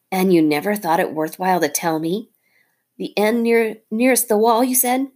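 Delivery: a hint of a fed-up little hero; mongoose hero. Rikki Tikki the mongoose.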